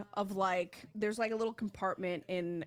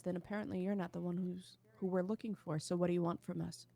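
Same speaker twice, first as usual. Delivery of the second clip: level, understated deadpan; 4 dB quieter than usual. Acted. Delana to Yuri after taking back the paper, deadpan. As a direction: say it evenly, with no flourish. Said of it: "very deadpan says".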